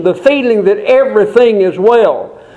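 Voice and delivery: incredulous objector. Acted. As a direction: throw the words back in disbelief.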